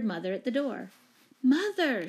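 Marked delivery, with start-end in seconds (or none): 1.4-2.1 high, louder call; raised voice, falling at the end. A narrator's reading. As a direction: call to mother at the door. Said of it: "she called".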